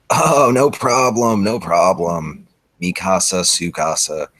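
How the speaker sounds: slow, drawn-out eager agreement; eager young guy. Acted. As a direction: happily say no problem, stretched.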